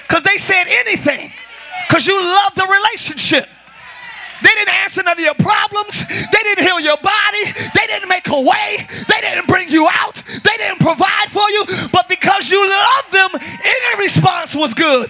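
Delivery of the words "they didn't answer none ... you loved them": raised pitch, driving repeated phrases; preaching litany. Real, not acted. Preacher listing what they didn't do, raised insistent litany. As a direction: pound out each phrase like a preacher.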